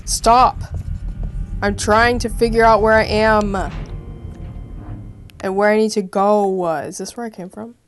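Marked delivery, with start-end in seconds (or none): 0.0-6.7 pressed loud half-whisper; whisper yelling. Real, not acted. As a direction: shout it but keep it hushed. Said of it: "whisper shout".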